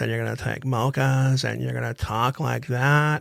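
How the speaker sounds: creaky vocal fry voice. Describing how Kardashians viewers end up talking, in vocal fry. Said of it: "you're gonna be talking like this".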